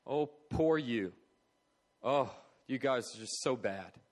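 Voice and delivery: drawn-out, put-on pitying tone; mock pity. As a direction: pity them with a long "poor you". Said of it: "not a heart of pity".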